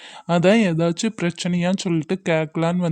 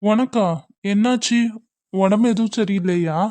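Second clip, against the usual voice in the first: higher, startled worried question; surprised concern; 4 semitones higher than usual. Acted. Senior startled to hear Sathya is unwell, surprised concern. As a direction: caught off guard by her news.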